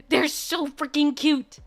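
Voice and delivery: high, loud cooing over something adorable; gushing squeal. Real, not acted. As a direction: gush like you could burst from cuteness. Gushing over cute figures.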